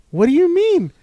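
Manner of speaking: high, puzzled question; bewildered old lady; confused grandma. Retold or imitated. Mimicking Grandma's confusion over the show, high and puzzled. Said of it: "And she's like".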